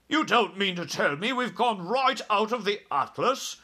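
high, alarmed disbelieving question; terrified cry. A narrator's reading. Army head in the back seat, terrified cry. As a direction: cry out, aghast at the news. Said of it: "who was even more terrified".

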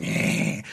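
breathy unvoiced hiss at commuters; a short imitated hiss, half joking; mock hiss. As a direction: hiss like a cornered creature. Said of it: "you're hissing at people".

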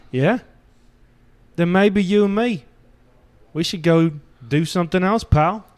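a hammed-up British tough-guy accent, lightly done; shitty put-on British accent. Man telling his partner old advice in a bad British accent. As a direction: fake a rough British accent for the bit. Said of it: "The last shitty accent I can pull out".

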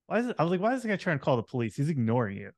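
lightly mock-incredulous, pitch jumping up; mild exasperation. Retelling his reply to a colleague about calling police, mildly exasperated.

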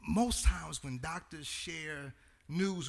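lightly voiced elderly church mother; quoting the mother. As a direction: gently voice the old mother saying Pastor. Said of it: "she said".

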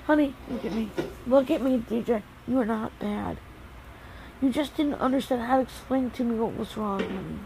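calm him down softly; soothing. Real, not acted. Mother soothing upset son.

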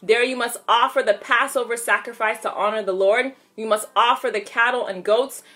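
measured Bible reading aloud; steady, instructive read-aloud of scripture. Real, not acted. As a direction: read the verses evenly, leaning on key words. Reads scripture aloud to viewers.

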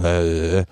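tired, croaky "uh"; strained voice noise. Shown as a demonstration. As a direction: demonstrate a worn-out voice. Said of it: "det var slitsomt å prate". (sliten, anstrengt lyd)

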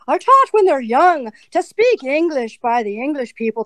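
European English with an English accent. Shown as a demonstration. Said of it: "sort of an English accent".

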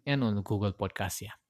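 unvoiced, hushed aside to the listener; whispered aside. Real, not acted. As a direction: drop into a whisper as if sharing a small secret. Aside muttered after listing apps.

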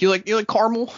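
supervisor voice. Retold or imitated. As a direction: voice the coworker offering candy. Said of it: "he's like".

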